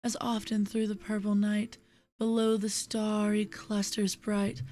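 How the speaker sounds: measured, lilting verse with pauses at line ends. Acted. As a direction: read the poem gently, letting refrains fall away. Reads a poem aloud.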